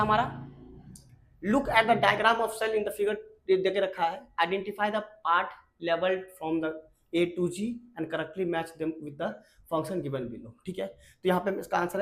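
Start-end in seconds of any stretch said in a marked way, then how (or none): 1.5-10.5 slow, deliberate read of an English exam question. Acted. Teacher reads the worksheet question to students slowly. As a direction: dictate the question word by word.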